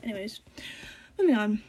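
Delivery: talking while chewing gum. Real, not acted. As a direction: say it around a piece of gum. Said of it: "I'm chewing gum right now".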